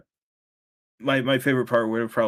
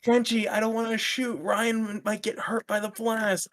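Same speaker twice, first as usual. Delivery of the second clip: much higher, slow hammed-up dub voice; bad dub voiceover; 9 semitones higher than usual. Friends mocking a bad fan dub, high slow hammed-up voice. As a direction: parody a cheap fan dub. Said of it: "a bad voiceover one".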